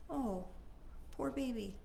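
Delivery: soft, tender comfort; genuine sympathy. Shown as a demonstration. Comforting a friend after their whine, softly and sincerely. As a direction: say it like you truly hear them. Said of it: "what I need from you, is for you to say".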